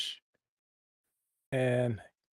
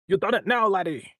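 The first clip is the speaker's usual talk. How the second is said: lightly voiced Scottish accent, pitched up; Scottish game character; 3 semitones higher than usual. Player quoting the voice actor's game line in a Scottish accent. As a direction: toss out a mock Scottish taunt. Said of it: "repeating what I say in my voice".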